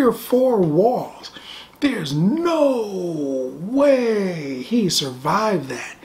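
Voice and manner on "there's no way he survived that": whispering. Real, not acted. Disbelief at Superman's violence.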